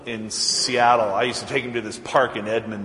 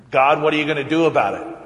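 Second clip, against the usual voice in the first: louder, fast, demanding challenge; demanding of God; 2 semitones higher, 6 dB louder, faster than usual. Retold or imitated. Preacher retelling his fury at God over the news, mock demand. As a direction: fire the question at God. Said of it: "And I'm wondering".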